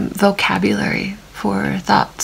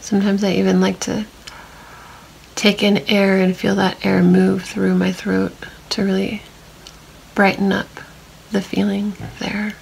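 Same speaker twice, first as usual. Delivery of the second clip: calm meditation voice with long silences; unhurried, even guiding, leaving long pauses to notice; guided body scan. Real, not acted. Meditation guide leading listeners through a body scan, calm and spacious.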